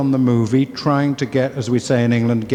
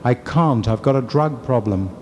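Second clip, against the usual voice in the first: matter-of-fact admission in the big voice. Retold or imitated. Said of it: "And I heard this big voice say".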